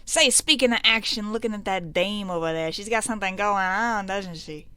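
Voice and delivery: loud opening, easing off; old-time gangster eyeing a dame; leering mobster. Acted. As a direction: play the small-time crook on the prowl. Voices mobster eyeing a woman.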